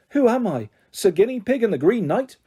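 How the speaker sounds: high, haughty little pet voice; indignant guinea pig. A narrator's reading. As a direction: play the offended guinea pig. Guinea pig's imagined indignant look.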